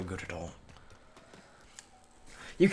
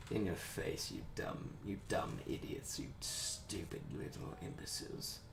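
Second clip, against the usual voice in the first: mock gloating whisper; 14 dB quieter than usual. Gloating insult after beating enemy.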